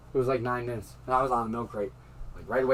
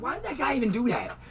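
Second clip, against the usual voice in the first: retold puzzled outburst, higher and louder; baffled outburst; 9 semitones higher, 6 dB louder than usual. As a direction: relive the disbelief at that guy. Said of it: "I was like".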